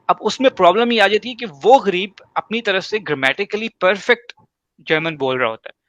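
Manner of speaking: ordinary talk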